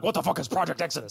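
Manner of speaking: Qui-Gon baffled. Pretend. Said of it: "cut to Qui-Gon being like".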